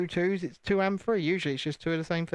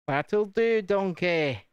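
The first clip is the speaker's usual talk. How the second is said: lightly put-on ogre catchphrase, a little raised; a louder, mock movie-ogre send-off; Shrek; 3 semitones higher, 3 dB louder, much slower than usual. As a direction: quote it like the film ogre. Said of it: "Mister Shrek himself would say".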